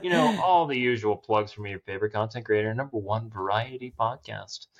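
lightly put-on radio announcer voice; a hint of announcer in the plug. Shown as a demonstration. Podcaster plugs the show to listeners, light radio announcer voice. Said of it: "using my radio announcer voice".

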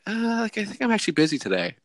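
reluctant excuse. Retold or imitated. Voicing a feeble Sunday excuse.

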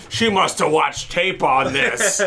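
slow, put-on commentator voice; deadpan ringside commentary; announcer. Commentator remarking on the wrestler, slow mock commentary. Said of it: "The announcer's yet again still going".

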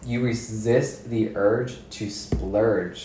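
"urge to splurge" drawn out slowly; slow, rhythmic rhyme. Shown as a demonstration. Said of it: "this is you".

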